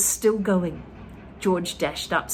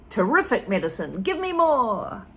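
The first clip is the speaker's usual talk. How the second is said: Grandma demanding more medicine from George; greedy Grandma; 2 semitones higher, 3 dB louder than usual. Acted.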